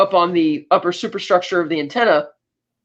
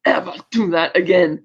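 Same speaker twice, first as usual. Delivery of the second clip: mock angry outburst, lightly accented voice; put-on indignant warning; retold anger. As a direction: scold as a sore villain, half in earnest. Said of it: "gets all angry".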